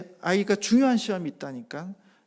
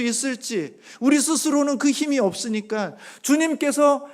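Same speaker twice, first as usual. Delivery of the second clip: loud, high impassioned sermon voice; fervent preaching; 7 semitones higher, 8 dB louder than usual. Acted. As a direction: preach it out, building conviction. Preaching at full force. (열정적인 설교 톤)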